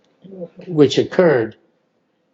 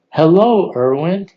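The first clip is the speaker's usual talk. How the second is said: father's voice; 3 semitones higher, 4 dB louder than usual. Retold or imitated. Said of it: "it is the exact inflection of the way my dad spoke".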